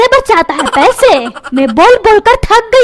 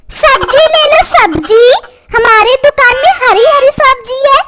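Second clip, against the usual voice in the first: mouth wide open; 4 semitones higher than usual. Acted. Bablu shouts to customers with his mouth wide open. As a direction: stretch "सब्जी ले लो सब्जी" out, mouth wide open, in a higher pitch. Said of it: "मुंह फाड़ फाड़ करके".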